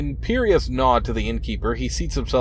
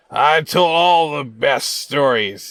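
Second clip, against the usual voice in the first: put-on slurred, ragged, much slower speech; 4 semitones higher, 5 dB louder than usual. Narrator voicing an eyeless drunkard greeting the listener, slurred, ragged voice. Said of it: "His speech is slurred and his voice ragged".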